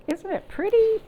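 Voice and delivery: high, loud and thrilled; delighted. Real, not acted. Librarian showing children the cookie backpack, thrilled and high.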